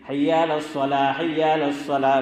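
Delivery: "الصلاح" ending in an open alif, no final ha; final ha dropped. Shown as a demonstration. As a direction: let "الصلاح" end on a plain long aa, the ح silent. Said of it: "ہا کی آواز آئی نہیں۔".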